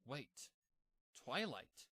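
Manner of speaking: sudden bright realization; excited exclamation. A narrator's reading. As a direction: blurt it out, struck by an idea. Sudden idea in narration.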